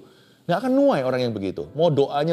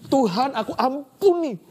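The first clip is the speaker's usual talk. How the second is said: tearful forgiving prayer; 8 semitones higher than usual. Shown as a demonstration. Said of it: "nangis kesakitan".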